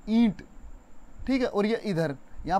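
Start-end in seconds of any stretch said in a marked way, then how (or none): 0.1-0.4 ईंट with the ई pressed hard and louder; ईंट, ई said with force; stress on ई. Shown as a demonstration. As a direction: push the ई of ईंट. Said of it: "हमने जोर लगाकर बोला ई पे".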